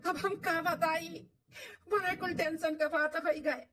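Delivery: slow, tearful breaking of bad news; grieving news. Son telling his wife the mother will die, tearful. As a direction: tell it slowly through tears.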